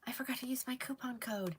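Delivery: hushed, sheepish customer confession; a customer's sheepish aside, whispered; mock whispered customer. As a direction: whisper it like a customer who just remembered. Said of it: "Someone says".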